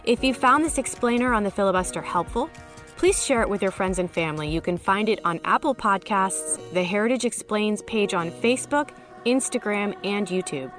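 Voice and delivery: stuffy nose, scratchy allergy voice. Real, not acted. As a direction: talk through a blocked nose and scratchy throat. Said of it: "Apologies for the stuffy nose and scratchy voice".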